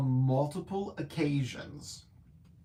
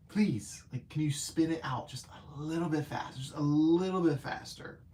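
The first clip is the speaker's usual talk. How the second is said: pleading whisper. Retold or imitated. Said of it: "and it's like".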